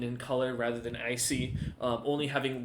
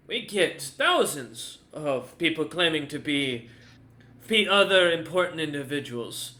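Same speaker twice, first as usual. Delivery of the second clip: dismissive dwarf guard; 3 semitones higher, 4 dB louder than usual. Acted. Guard doubts a stranger claiming importance, dismissive. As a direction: put the visitor in his place, slightly raised voice. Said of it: "He looks at you and goes".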